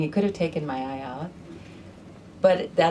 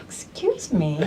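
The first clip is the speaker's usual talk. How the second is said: laughing disbelief; slower than usual. Retold or imitated. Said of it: "I'm like".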